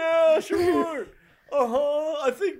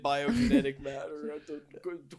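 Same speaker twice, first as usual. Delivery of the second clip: low villain voice; dragon voice; 10 semitones lower than usual. Acted. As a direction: rumble it like a dark overlord. Santa reveals evil plan.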